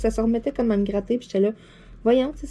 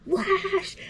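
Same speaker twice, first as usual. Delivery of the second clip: disgusted; 11 semitones higher than usual. Retold or imitated. Disgust at bug on her back.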